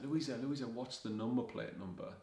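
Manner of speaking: shouting across. Retold or imitated. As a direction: shout for Louisa from the pay machine. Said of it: "I shouted".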